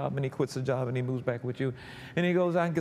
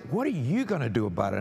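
low, quick challenge; God's challenge; 3 semitones lower, faster than usual. Retold or imitated. God asking the troubled believer, low-voiced challenge. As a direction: put the question back on them, low and brisk. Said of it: "And he's like".

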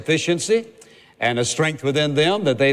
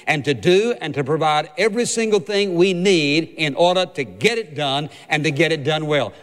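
preaching at full force; 3 semitones higher than usual. Acted. Preacher lifting the congregation toward God's promise, fervent. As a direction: preach it with mounting fervor.

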